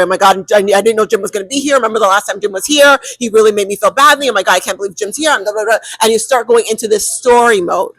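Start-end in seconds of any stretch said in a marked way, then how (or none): 0.0-5.3 rushed, fretting inner voice; anxious storyteller rant. Retold or imitated. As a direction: spiral into worry about Jim. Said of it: "where you start telling a story".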